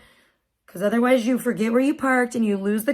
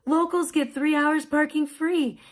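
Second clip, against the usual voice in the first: higher, slow kindly singsong; so nice; 4 semitones higher, slower than usual. Retold or imitated. Attendant explaining free parking to mom, slow and nice. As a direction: imitate a sweet attendant explaining. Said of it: "he was, like, so nice".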